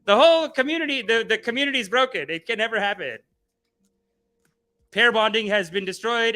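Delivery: hammed-up bitter red pill rant; red pill guy. Mocking red pill guys' doom rant, high and loud. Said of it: "they think, like".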